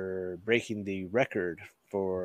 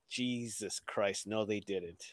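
retold quiet dismay, much softer and slower; stunned disbelief; 3 semitones lower, 10 dB quieter, slower than usual. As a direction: say it low under your breath, appalled. Retells stunned reaction to the ambulance.

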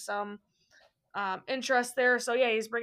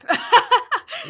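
big burst of laughter; loud laugh; 13 semitones higher, 9 dB louder than usual. Real, not acted. Laughing after joke.

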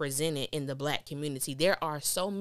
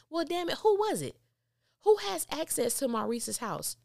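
much higher, fed-up demand; exasperated; 10 semitones higher than usual. Real, not acted. Fan complaining about the show's plot, high and exasperated. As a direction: throw up your hands at the writer.

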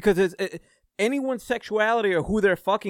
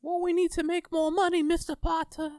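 mock greedy executive. Mocking greedy studio exec.

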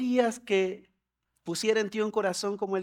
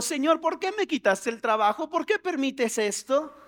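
higher-pitched mock-distressed question; acted plaintive why; tearful complaint; 4 semitones higher than usual. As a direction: protest to God as if upset. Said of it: "estamos llorando".

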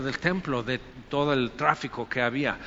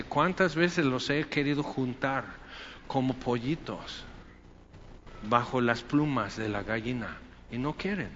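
tearful lament; 4 semitones lower, 7 dB quieter than usual. Retold or imitated.

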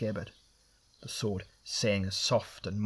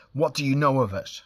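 loud and higher, raging demand; furious roar; 5 semitones higher, 7 dB louder than usual. Acted. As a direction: bellow the accusation at them. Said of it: "he roared".

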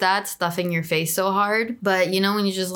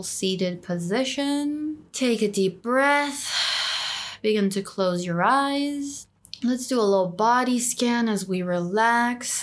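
guided meditation. Acted. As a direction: lead them gently into calm.

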